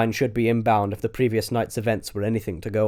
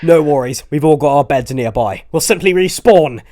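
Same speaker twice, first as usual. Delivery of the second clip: louder, upbeat; confident call; 4 semitones higher, 8 dB louder than usual. Acted. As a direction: shrug off the danger. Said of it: "ascertained Milton".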